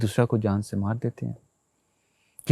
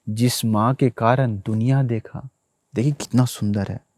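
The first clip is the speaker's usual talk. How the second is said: ordinary talk, nothing marked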